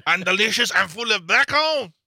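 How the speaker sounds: hammed-up high, gushing whine; mock swooning. Mock swooning over moist scones.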